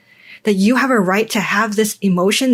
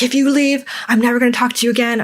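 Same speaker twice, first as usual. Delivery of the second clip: put-on a touch of a boyfriend's angry threat, higher and rushed; mock angry threat; 3 semitones higher, faster than usual. Boyfriend threatening her as she leaves the party: rushed mock anger. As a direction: toss off his ultimatum fast, lightly voiced.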